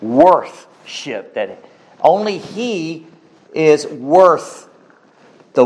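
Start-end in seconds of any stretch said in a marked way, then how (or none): 0.0-1.3 worthship said alone with a falling close. Shown as a demonstration. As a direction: set the word worthship apart and land it. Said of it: "where we get our word worthship".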